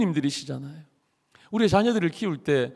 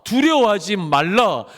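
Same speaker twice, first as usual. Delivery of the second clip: slow, solemn proclamation; lightly voiced majestic God; 2 semitones higher, slower than usual. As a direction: declare each word with divine weight, slowly. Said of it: "하나님께서 아브라함에게 말씀하십니다".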